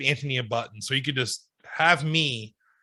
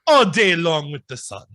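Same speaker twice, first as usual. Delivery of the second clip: lightly voiced Dracula; slower than usual. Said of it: "me as Dracula".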